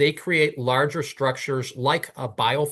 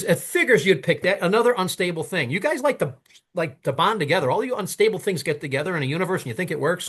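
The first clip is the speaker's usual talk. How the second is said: higher-pitched mocking dismissal; scornful retort; 5 semitones higher than usual. Skeptic brushes off the caller's ozone idea, scornful retort. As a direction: scoff as if quoting a fed-up skeptic.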